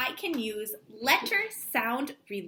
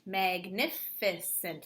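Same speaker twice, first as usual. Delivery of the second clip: magnificent clapped slowly again, quieter; softer clapped repeat; 4 semitones lower, 4 dB quieter, slower than usual. Shown as a demonstration. Teacher repeats the clapped word more quietly. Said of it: "clapping that word to see how many syllables".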